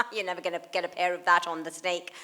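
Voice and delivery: lightly imitated frivolous delivery; frivolous quip. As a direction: toss it out as a flippant joke. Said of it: "I said in my kind of, you know, frivolous way".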